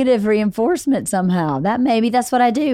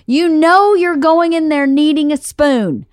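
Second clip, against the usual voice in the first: exasperated parent; 4 semitones higher than usual. Retold or imitated. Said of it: "every day I go".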